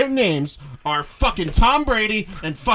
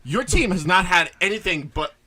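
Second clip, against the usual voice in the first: mock anger rant; 3 semitones lower than usual. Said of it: "I'm bringing up anger now".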